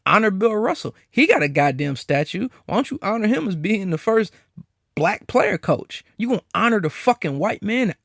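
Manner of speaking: imagined black cop. Retold or imitated. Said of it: "what are you gonna say".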